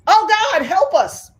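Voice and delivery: high, loud mock panic; hammed-up scream for help; imitated screaming. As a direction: cry out like a terrified passenger. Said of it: "I'm talking white people screaming".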